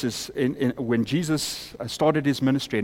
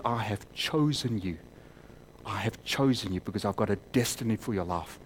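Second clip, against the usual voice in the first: quiet voice of God; 4 semitones lower, 7 dB quieter than usual. Acted. God's words spoken to the man.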